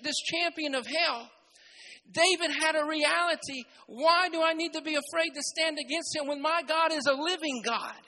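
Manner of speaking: loud, driving sermon climax; fervent preaching. Acted. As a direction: preach it hard to the congregation. Preaching at full force again.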